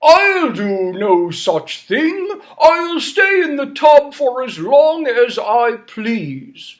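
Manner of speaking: stubborn king refusing to leave the tub. Acted. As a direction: refuse like a spoilt old king. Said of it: "And King Bidgood said".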